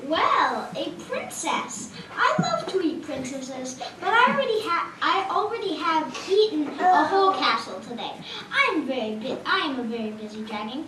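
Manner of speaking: pompous dragon brushing her off; lightly voiced dragon. Dragon voice in puppet show.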